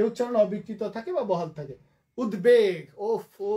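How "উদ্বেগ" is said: উদ্বেগ said as ud-beg, firm b; b sounded. Shown as a demonstration. Teacher giving proof of the rule, b sounded. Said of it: "সেখানে বফলার উচ্চারণটা হবে".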